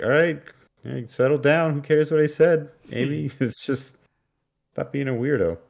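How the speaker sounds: high, loud mock dismissive voice; dismissive brush-off. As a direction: wave her off in a hammed-up high voice. Pam brushing Amy off.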